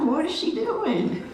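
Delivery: puzzled mom aside. Retold or imitated. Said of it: "I'm like".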